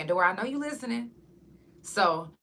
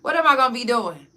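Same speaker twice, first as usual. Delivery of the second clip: worried rant; 3 semitones higher, 4 dB louder than usual. Retold or imitated. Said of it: "I was just like".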